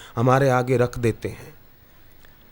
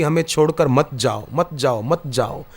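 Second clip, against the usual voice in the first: fading plea; 2 semitones lower than usual. Acted. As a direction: beg it to stay as the voice dies away. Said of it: "प्राण से प्रार्थना करने लगी".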